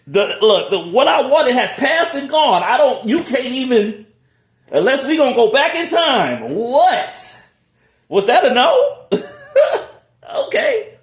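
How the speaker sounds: high, loud, laughing complaint; laughing exasperation. Real, not acted. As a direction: plead with a laugh.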